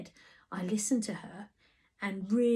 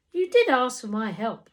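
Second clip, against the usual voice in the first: Tina pointing out; 3 semitones higher, 7 dB louder than usual. A narrator's reading. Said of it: "Tina pointed out".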